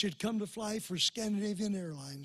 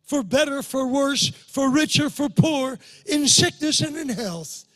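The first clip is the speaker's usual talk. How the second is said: loud, high declaration of wedding vows; shouted vows; 7 semitones higher, 14 dB louder, slower than usual. Retold or imitated. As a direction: proclaim each vow at full force. Vows declared in retold prayer.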